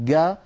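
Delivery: "قا" said as hard "ga"; a hard g in place of jeem; dialect g sound. Shown as a demonstration. Teacher describing Arab tribes' sound, hard g. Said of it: "يجعلون هذا الصوت قا".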